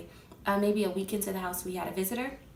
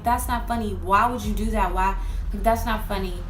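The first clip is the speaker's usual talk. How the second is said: upset yelling; 6 dB louder than usual. Retold or imitated. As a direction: shout at them, rattled. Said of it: "I'm like".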